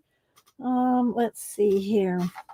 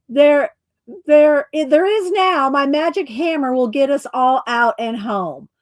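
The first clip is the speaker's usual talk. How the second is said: higher, louder hopeful proclamation; triumphant dwarf; 4 semitones higher, 4 dB louder than usual. Acted. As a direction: announce the rescue boldly, lightly voiced. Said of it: "it says".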